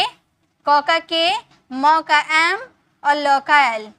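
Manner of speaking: slow, careful letter-by-letter spelling; mock student spelling slowly; imitating a student. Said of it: "अगर कोई student होगा तो क्या लिखेगा?".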